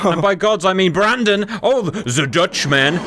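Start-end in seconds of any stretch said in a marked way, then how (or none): 1.6-3.0 slow put-on Dutch accent. Commentator naming the Dutchman to viewers, mock Dutch accent. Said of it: "that's my Dutch accent".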